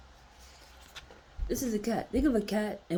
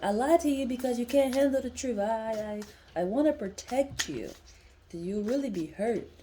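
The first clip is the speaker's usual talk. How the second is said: imitating a guy; 5 semitones higher, 4 dB louder than usual. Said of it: "how guys be like".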